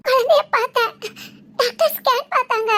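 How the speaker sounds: joyful sobbing laugh; so happy she laughs and cries; laughing through tears. Acted. She tells her brother she saw the baby, laughing through tears. Overjoyed mother-to-be.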